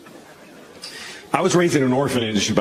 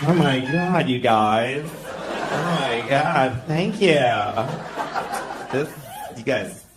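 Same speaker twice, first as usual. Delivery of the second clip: mock Mexican accent; slower than usual. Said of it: "This is what I talk like now".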